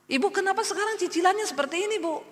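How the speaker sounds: fast, high, irritated complaint; the landlord nags her about late payments; annoyed landlord. Retold or imitated. Pak Haji scolds the tenant over her installments, fast and high-pitched. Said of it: "Pak Hajinya marah-marah".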